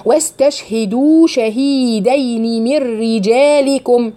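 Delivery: واستشهدوا شهيدين with the long vowels stretched slowly; natural elongation. Shown as a demonstration. Teacher slows down to show the natural madd. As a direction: draw out the vowels of شهيدين evenly. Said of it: "في هنا مد طبيعي".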